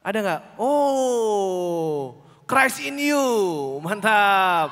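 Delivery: Pak Handoko impression. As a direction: mimic the pastor's signature hype greeting. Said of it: "Kayak Pak Handoko". (meniru gaya khas pendeta yang bersemangat, lebih keras dan tinggi)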